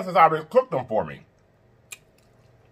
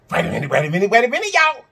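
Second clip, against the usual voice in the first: rising excitement; 4 semitones higher, faster than usual. Real, not acted. Hyping the audience again.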